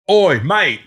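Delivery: high, loud retold hail; imitating a shout across the street; calling out. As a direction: holler a mock-matey greeting. Hailing the other comic outside.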